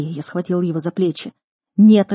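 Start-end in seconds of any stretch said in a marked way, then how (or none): 1.8-2.1 loud, sharp refusal; growled no. A narrator's reading. Brother refuses to step away from the cage, loud angry no. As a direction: bite off the refusal. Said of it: "рыкнул он".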